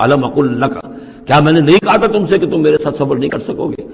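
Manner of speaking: a light rebuke, stress on تھا; mild scolding. Shown as a demonstration. Khidr rebuking Moses for asking again, mild scolding. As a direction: scold him gently but firmly. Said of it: "ذرا ڈانٹ کے انداز میں کہا".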